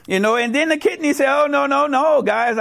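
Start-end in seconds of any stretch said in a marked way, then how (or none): 1.3-2.6 higher-pitched protest; playful "no, no" protest; mock objection. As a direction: wave the others off, pitched up. Kidney objects in the joke.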